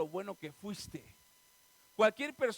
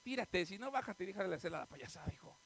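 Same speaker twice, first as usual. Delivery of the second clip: bajito, restándole importancia; papá desdeñoso; 3 semitones lower, 8 dB quieter than usual. Acted. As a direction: despacha al hijo como quien ve una payasada. Papá imitado quitándole importancia al hijo. (padre fastidiado, en voz baja)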